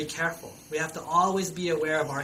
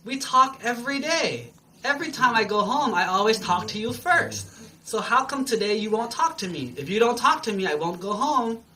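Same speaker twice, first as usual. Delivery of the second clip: higher-pitched playful grievance; a touch of pleading protest, pitched up; mock complaining; 4 semitones higher, 3 dB louder than usual. Monkey coaxing the silent rock to talk, mock complaining.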